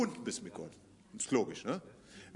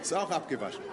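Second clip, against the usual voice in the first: chuckling through a joke; amused chuckle; laughing; 3 semitones lower, 3 dB quieter, faster than usual. Real, not acted. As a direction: laugh while you say it. Joking about his terrace.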